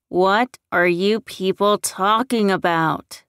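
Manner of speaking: loud, exasperated outburst; shouted demand. A narrator's reading. Larry to the people keeping secrets, shouting. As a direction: raise the voice in frustration. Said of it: "Larry shouted".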